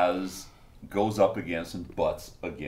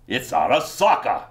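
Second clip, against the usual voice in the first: raised aristocratic exclamation; Thurston the thirty-third; 5 semitones higher, 6 dB louder than usual. Acted. Aristocrat recognising the enemy symbol, dramatic exclamation. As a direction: announce it dramatically through clenched teeth. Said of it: "aristocratic mien of talking through his teeth".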